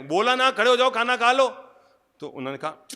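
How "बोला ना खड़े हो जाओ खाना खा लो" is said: loud, high bossy wife call; wife shouting at her husband to come eat, loud. Retold or imitated. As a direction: yell it from the kitchen like an impatient wife. Wife repeats order.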